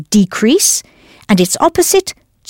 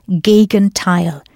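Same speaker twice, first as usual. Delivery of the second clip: slow model word; slower than usual. Shown as a demonstration. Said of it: "And now das Gegenteil".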